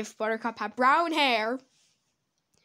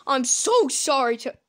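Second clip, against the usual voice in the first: voice crack; 5 dB louder than usual. Real, not acted. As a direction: voice cracking mid-phrase. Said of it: "voice crack".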